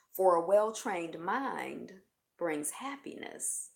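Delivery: measured reading, slowing toward the end; quote reading. Real, not acted. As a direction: read out the saying, letting each phrase settle. Reads Buddha quote aloud.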